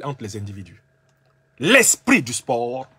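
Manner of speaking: ordinary delivery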